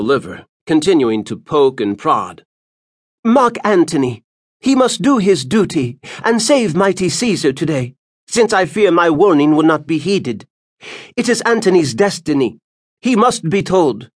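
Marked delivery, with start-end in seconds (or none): 3.2-14.1 put-on high, ominous old woman's voice; old seer Spurinna. Spurinna telling Moms of her warning, old seer's voice. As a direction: warn it like an ancient prophetess.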